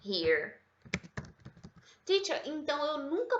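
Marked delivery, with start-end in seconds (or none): 0.0-0.5 very slow, each word spelled out for the class; slow model sentence. Shown as a demonstration. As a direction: dictate it slowly like a teacher. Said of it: "Vai fazer o quê pra corrigir ela?". (frase modelo bem devagar)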